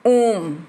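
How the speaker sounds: ओम with the O held extra long; prolonged vowel. Shown as a demonstration. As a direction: stretch the vowel of ओम before closing on M. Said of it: "तिगुना समय लगता है".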